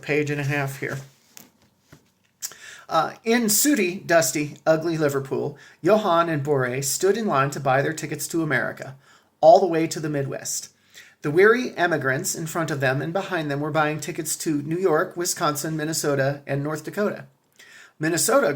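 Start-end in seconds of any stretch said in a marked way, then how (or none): 3.2-17.3 reading a family history aloud; steady read-aloud narration; story reading. A narrator's reading. Reads book excerpt aloud. 18.0-18.5 a lightly voiced, mildly grumbling ticket agent saying Minnesota; understated grumble on Minnesota; grumbled. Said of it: "grumbled the ticket agent".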